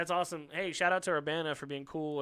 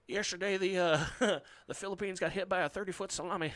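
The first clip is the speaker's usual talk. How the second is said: Bush impression; 3 semitones higher than usual. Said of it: "mispronunciated a word".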